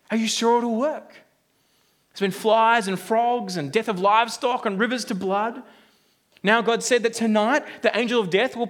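lightly voiced anxious father; nervous father. Nervous father asking his neighbour on Passover night, lightly worried. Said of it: "The nervous one turns to the confident one and goes".

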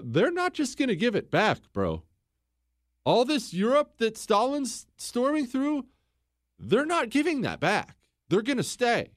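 Churchill warning FDR. Retold or imitated. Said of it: "told F D R".

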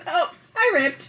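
put-on slow, laughing little girl quote; a hint of a giggling toddler; giggling child. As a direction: say it through a giggle like a proud kid.

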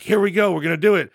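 euphoric. Retold or imitated. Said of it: "in my sort of euphoria".

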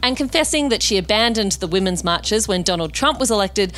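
scripted host introduction, neatly phrased; podcast intro read. Real, not acted. Host introducing the weekend guest to listeners, scripted intro read. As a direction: read it as a polished show opener.

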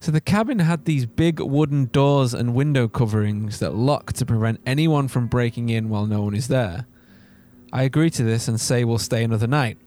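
measured horror-story reading; story narration. A narrator's reading. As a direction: narrate the creepy tale steadily.

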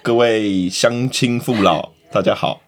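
slow, drawn-out loudspeaker announcement; village chief broadcast. Retold or imitated. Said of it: "里长广播说".

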